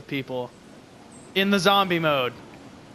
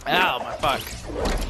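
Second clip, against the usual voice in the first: strained throat; much slower than usual. Real, not acted. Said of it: "My throat is gonna be fucking stripped".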